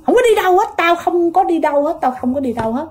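lightly acted protest, starting high and falling back; retold stubborn refusal. Possessed girl refuses the ride to the healer, mock-defiant refusal easing off. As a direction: open high on the refusal, then settle down.

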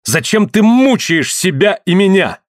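pitched high and slow, pleading; high, anguished plea. Acted. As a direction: ask it in anguish, slowly. Woman cries out in anger.

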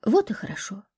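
quiet tender reassurance; gentle smile. A narrator's reading. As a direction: soothe her gently with a smile. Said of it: "мягко улыбнулась ей Люба".

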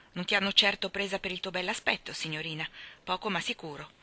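blunt, matter-of-fact verdict; a plain, flat put-down; categorical remark. Acted. Rachel Lynde bluntly judges Anna's looks. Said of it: "categorico commento".

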